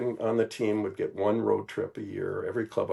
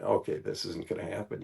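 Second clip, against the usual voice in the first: doubtful inner thought; 5 semitones lower, 6 dB quieter than usual. Retold or imitated. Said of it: "I'm thinking".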